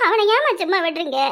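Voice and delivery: near tears, pleading with mother; tearful plea. Acted. Daughter begging her mother through tears. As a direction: let the words catch on a sob.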